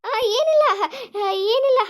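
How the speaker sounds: laughing cover-up so the groom won't worry. Acted. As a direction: brush it aside with a laugh. Daughter laughs off the question.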